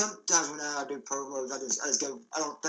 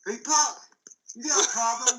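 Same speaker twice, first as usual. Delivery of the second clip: higher, louder tough-guy challenge; mock angry promo; 6 semitones higher, 5 dB louder than usual. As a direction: square up and call him out.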